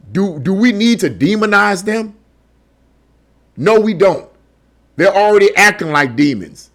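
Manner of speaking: rhetorical question answered with emphatic sarcasm; sarcastic question and firm answer. Real, not acted. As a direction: ask it pointedly, then answer with mock certainty. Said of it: "I'm being sarcastic".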